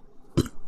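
real unplanned burp; a short burp mid-sentence. Real, not acted. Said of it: "that was a burp".

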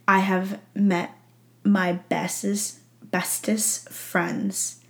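slow, fading sincere words; moved. Real, not acted. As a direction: say it slowly, softening to a hush. Emotional slow confession.

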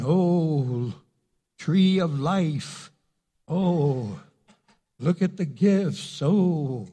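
mock awe. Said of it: "I'm not going".

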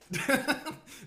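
loud high laugh; burst of laughter. Real, not acted. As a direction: crack up out loud. Laughs at own story.

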